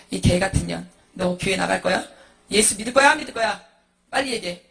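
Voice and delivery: loud, abusive husband's interrogation; hard, threatening shout; acted angry demand. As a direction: demand an answer with forceful menace. Violent husband threatens wife over faith.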